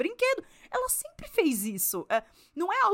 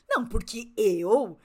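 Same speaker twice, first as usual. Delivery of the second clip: irritating intonation; 4 dB louder, slower than usual. Retold or imitated. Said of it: "entonações também que me irritam".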